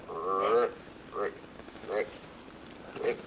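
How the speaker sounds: quick grunt call noises; imitated deer grunt. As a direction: mimic a buck grunting in short bursts. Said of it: "give it a couple more grunts".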